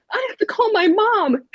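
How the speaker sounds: very high, frantic outburst; retold freak-out. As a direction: blurt it out in mock hysteria. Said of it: "Like, I'm freaking out".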